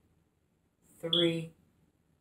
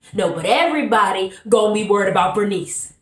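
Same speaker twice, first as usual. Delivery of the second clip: louder Bernice line; 4 dB louder, faster than usual. Acted. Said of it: "playing the character of Bernice".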